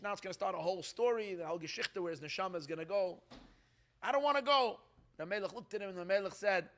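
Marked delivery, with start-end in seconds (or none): 4.0-4.8 pleading villager. Retold or imitated.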